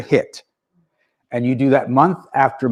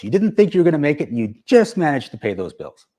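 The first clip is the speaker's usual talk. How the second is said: ordinary delivery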